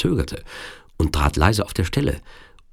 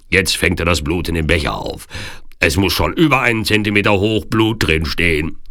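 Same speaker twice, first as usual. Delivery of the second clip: Turkish henchman. Acted. Turk keeps calling out his report.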